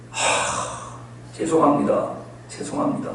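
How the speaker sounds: hushed, low apology after a sigh; meek pleading. Acted. Debtor begging the king for time and mercy, meek pleading. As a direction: beg softly, as if cowed.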